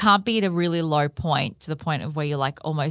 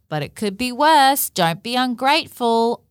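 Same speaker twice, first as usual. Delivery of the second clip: mock scolding; 7 semitones higher, 4 dB louder than usual. Imitating a dismissive friend.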